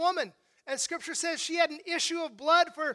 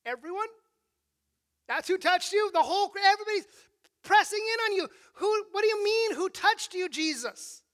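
higher and louder, disbelieving; a friend baffled by the question; incredulous protest; 4 semitones higher, 4 dB louder than usual. Retold or imitated. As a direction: Peter exasperated that Jesus asks who touched him. Peter protests amid pressing crowd.

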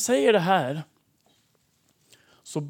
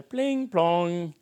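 doorbell imitation; 2 semitones higher than usual. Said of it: "så ringer det på dörren nere".

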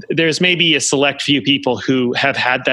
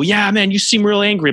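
meet his heat with your own raised voice; matching their energy; 6 semitones higher than usual. Shown as a demonstration. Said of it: "but you, like, match them".

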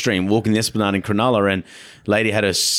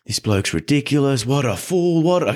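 retold screaming; 5 semitones higher than usual. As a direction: imitate an outraged rant without really screaming. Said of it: "she's full screaming".

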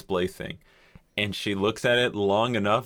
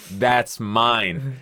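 firm, measured claim; stern; 2 semitones higher, 4 dB louder than usual. Retold or imitated. Shopper to couple holding the creamer, stern. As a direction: say it sternly without screaming. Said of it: "I said very sternly".

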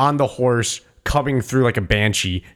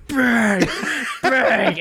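imitated gunshots; 7 semitones higher than usual. Imitating shotgun blasts in retelling.

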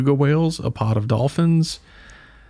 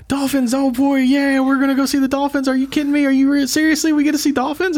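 mock gleeful squealing, much higher; imitating her excitement; 13 semitones higher, faster than usual. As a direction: squeal it like a thrilled kid. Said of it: "And she got so excited".

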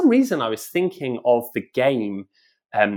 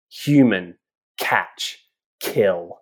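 monster war song; 3 semitones lower, much slower than usual. A narrator's reading.

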